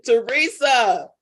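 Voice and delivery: slow, drawn-out mock exasperation; playful comedian's scolding; Martin Lawrence. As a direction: stretch it out in comic dismay. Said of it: "in my Martin Lawrence voice".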